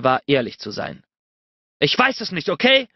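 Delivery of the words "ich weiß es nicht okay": shouted back. A narrator's reading. Cornered Bennett shouts back at her, frustrated yell. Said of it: "schrie ich zurück".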